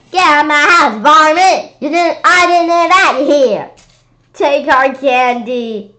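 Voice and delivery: high, loud furious yell; angry old lady. Acted. Old lady shouting the monster out of her house, furious. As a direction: drive the varmint out.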